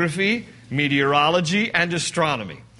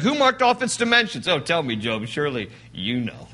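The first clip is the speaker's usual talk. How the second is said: sarcastic; 2 semitones lower than usual. Acted. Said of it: "God is being sarcastic".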